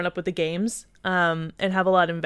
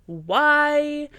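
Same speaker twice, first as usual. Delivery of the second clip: exasperated pleading; 2 semitones higher, much slower than usual. Retold or imitated. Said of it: "you're just like".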